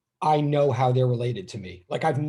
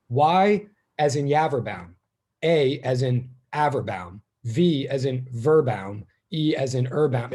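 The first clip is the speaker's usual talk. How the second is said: obnoxious dad; 4 dB louder, slower than usual. Retold or imitated. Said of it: "He would go, this is so obnoxious".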